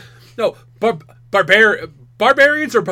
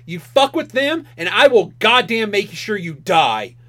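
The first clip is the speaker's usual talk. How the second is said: mock menace. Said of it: "she just gets right in his face".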